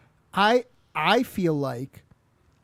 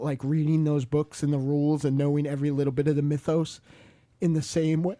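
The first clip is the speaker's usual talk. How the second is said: burping. Real, not acted. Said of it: "Excuse me, I'm burping".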